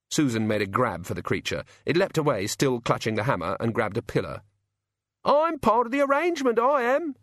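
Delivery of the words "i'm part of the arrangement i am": shrill high imp yell. A narrator's reading. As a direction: screech it like a furious goblin. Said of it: "it yelled".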